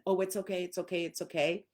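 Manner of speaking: ordinary "it's okay" reassurance; just pat and reassure; plain soothing. Shown as a demonstration. Owner petting a stressed dog, plain soothing. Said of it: "start petting them and".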